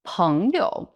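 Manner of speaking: slow Peng you, peng rising, you falling then rising; peng you with tones. Shown as a demonstration. Teacher models the word friend slowly. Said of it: "rising tone".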